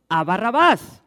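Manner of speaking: loud, high crowd cry; crowd shouting. Acted. The crowd answers the governor with a loud, high shout. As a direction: yell the name like an angry mob. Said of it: "Y ellos dijeron".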